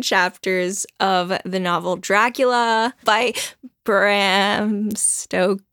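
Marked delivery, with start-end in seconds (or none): 3.8-5.6 very slow, drawn-out Bram Stoker; drawn-out name. Shown as a demonstration. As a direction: stretch each syllable of the name.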